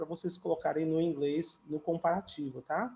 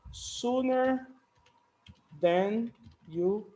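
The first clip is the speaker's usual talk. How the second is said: raised model word; 2 semitones higher, much slower than usual. Shown as a demonstration. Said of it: "Sooner than you think é uma música".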